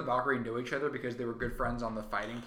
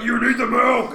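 loud, higher, insistent yell; Taika Waititi; 8 semitones higher, 14 dB louder than usual. Acted. Director insists while shoving milk, hammed-up shout. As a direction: shout it as a pushy force-feeder.

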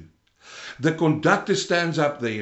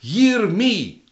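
mock preacher demanding attention, pitched higher; self-important preachers; 4 semitones higher, 4 dB louder, much slower than usual. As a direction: lightly imitate preachers calling attention to themselves. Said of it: "a lot of the preachers of today say".

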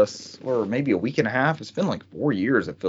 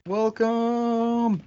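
robotic voice; 10 semitones higher, 4 dB quieter, much slower than usual. Real, not acted. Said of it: "uh, robotic voice".

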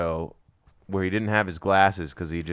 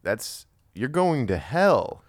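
shocked disapproval; 4 semitones higher, much slower than usual. Retold or imitated. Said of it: "I just remember being like".

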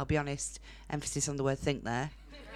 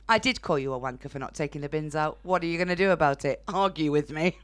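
mock row; 5 dB louder than usual. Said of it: "Yes, Chris, my partner".

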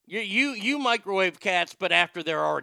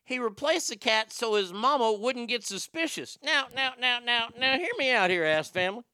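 higher-pitched, hammed-up Chicago accent; exaggerated Chicago accent, pitched up; 4 semitones higher than usual. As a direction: tell the tale like a Chicago local. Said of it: "I can't do this accent".

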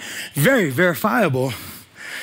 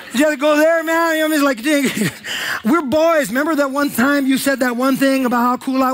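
higher, pleading wounded friend; whiny hurt Peter; 5 semitones higher than usual. Retold or imitated. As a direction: protest like a hurt buddy. Peter's hurt protest voiced.

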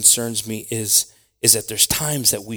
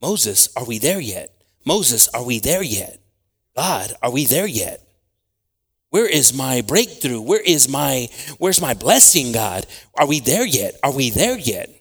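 put-on pestering child; 2 semitones higher, 4 dB louder than usual. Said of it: "the want came of".

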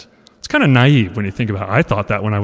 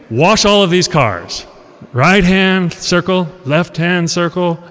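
slow, deliberate commands from a mentor, a little higher; slow teacher instruction; 5 semitones higher, slower than usual. Retold or imitated. Mentor instructs his student, slow and deliberate. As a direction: spell out each motion like a patient master. Miyagi instructs Daniel's son, slowly.

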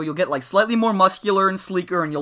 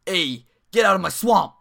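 mock shout; 3 semitones higher, 3 dB louder than usual. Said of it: "just shouting at villagers".

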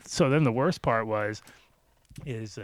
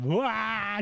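high mock wail; mock bawling; 9 semitones higher, 3 dB quieter than usual. Girlfriend putting on tears for police, mock bawling. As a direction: imitate a crying woman with a high wail. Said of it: "She just starts fucking bawling".

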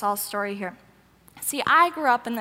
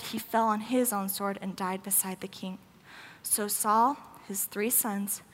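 subdued, lower reading voice; scripture reading; 3 semitones lower, 3 dB quieter than usual. A narrator's reading. Preacher reading the battle verses to the congregation, sober scripture reading. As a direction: read the verses soberly, sinking softer at phrase ends.

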